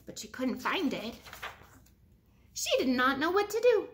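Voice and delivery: lively storybook read-aloud; animated picture-book voice; reading to children. Acted. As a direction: read it to a class of kids.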